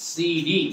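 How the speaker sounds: "সিডি" repeated with D for the T of city. Shown as a demonstration. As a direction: drill "সিডি" as "see-dee". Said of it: "কি বলবো?". ("সিডি", ট-এর জায়গায় ড)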